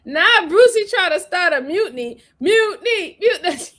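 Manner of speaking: high, playful cry of mutiny; high-pitched teasing accusation; mock alarm. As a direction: cry mutiny in pretend outrage. Playfully accusing Brucey, calling out mutiny.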